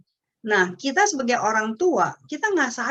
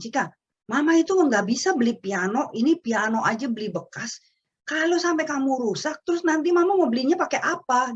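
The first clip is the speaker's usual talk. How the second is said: rising exasperated scold, higher at the end; scolding mother; 4 semitones higher than usual. Retold or imitated. Mother scolding her daughter over the piano, exasperated. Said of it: "Saya jadi emosi".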